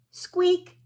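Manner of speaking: put-on a high toy squeak for the children; rubber duck squeak. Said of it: "says the little rubber duck".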